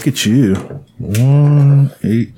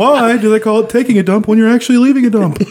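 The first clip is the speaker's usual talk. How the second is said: eighties stand-up comic; 10 semitones higher than usual. Pretend. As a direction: sell the cheesy punchline hard. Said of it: "eighties jokes".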